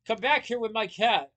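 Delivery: high, loud outraged yell; yelled, then easing on the correction; screaming. A narrator's reading. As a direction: shout after someone running off. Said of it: "Pronto screamed".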